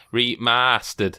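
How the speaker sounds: "remastered" drawn out slowly in imitation Northern accent; attempted Northern accent. Shown as a demonstration. Host trying cohost's accent, careful Northern imitation. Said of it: "trying to do that".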